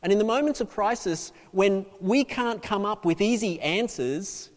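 preaching. Acted. Preacher to congregation on grasping in crisis, preaching. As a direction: press the point home to the congregation.

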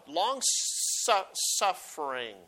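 "Long su- suffering" drawn out, "suffering" slow and falling; stretched emphasis. Shown as a demonstration. Preacher dwelling on the word long suffering, slowly. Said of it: "Notice this emphasis here on long suffering".

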